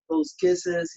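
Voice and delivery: high, light imitation of Michael; blowing kisses. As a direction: toss it off like a star. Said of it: "Michael was like".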